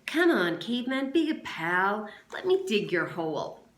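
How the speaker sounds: loud sneering plea; taunting cajole. Acted. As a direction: goad him with fake friendliness. Zigzag taunting Stanley.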